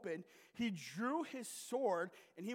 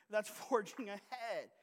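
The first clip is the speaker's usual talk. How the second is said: That's forging ahead said slower, each word weighted; slow emphasis. Shown as a demonstration. Pastor repeating the church motto to the congregation, slowed for emphasis. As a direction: drive home That's forging ahead slowly.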